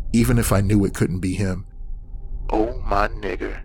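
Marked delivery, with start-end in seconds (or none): 2.5-3.6 breathy demonic voice. Acted. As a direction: breathe it into his ear, creepy. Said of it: "breathed into my ear".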